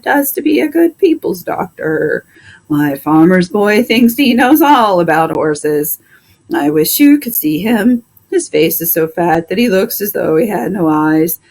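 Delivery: a fed-up horse complaining about his vet; talking horse. Acted. Plow horse complains to the doctor about the vet, grumbling horse voice.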